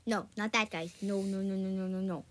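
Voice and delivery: lightly put-on Puss in Boots accent; mock foreign Puss in Boots accent. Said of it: "talking in a Puss in Boots accent".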